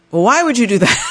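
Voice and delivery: husband's reply. Retold or imitated. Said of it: "And he says".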